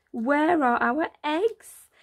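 slow, high and anxious; searching, panicky; worried magpie. Acted. Magpie frantically searching the rubble for eggs.

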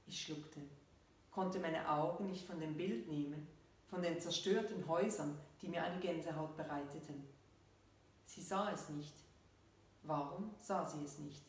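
measured reading with falling sentence ends; story narration. A narrator's reading. Author reads her story to listeners, measured narration. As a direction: read the story out evenly, pausing between phrases.

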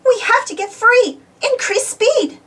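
high, loud urgent command; shouting orders. A narrator's reading. Storybook captain yelling at the crew. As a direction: Uniqua orders full speed to escape the monster, shouting. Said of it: "she shouted".

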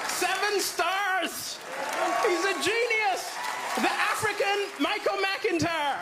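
slow, hammed-up rave read; proud mock fanfare of praise; gushing review. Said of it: "best review I ever got".

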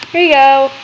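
high, quick and thrilled; bubbling with excitement; excited. Real, not acted. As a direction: rush it out with glee. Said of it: "I'm so excited".

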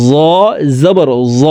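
জ said thick and full; heavy letter. Shown as a demonstration. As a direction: make জ heavy, unlike thin জাল. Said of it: "জ মোটা করে উচ্চারণ হবে".

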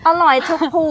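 อร่อยทุกภู with ภู for the fruit unit; say phu. Shown as a demonstration. Showing her friend the word ภู. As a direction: stress ภู as the durian count word. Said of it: "เขาเรียกภูใช่ไหม".

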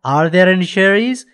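slow, clear classroom English; slow model reading. Shown as a demonstration. Teacher reads the question slowly to pupils, deliberate and clear. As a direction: read it slowly so pupils can follow.

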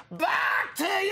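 slow drawn-out broadcast toss; sportscaster toss. Pretend. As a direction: hand it back like an anchor.

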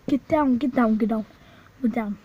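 urgent repeated command. Real, not acted. Telling friends to hide from the clown, urgently. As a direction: hurry them down, fast and pressing.

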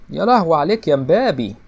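loud, high cry of amazement; excited shout. Real, not acted. Gamer shouting at Mbappé on screen, amazed and loud. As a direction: yell it out at the screen, thrilled.

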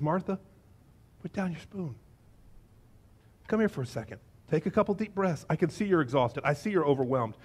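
soft, calming concern; gentle observation. Acted. Jesus soothes overwhelmed Martha, gentle and soft. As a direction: talk someone down without accusing. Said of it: "He just makes an observation".

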